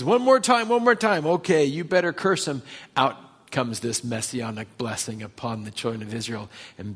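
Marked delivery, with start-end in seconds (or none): 0.0-0.7 much higher, louder demand; furious. Retold or imitated. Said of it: "Balak's furious". 0.7-2.6 much higher, louder command repeated; furious. Retold or imitated. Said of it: "Balak's furious".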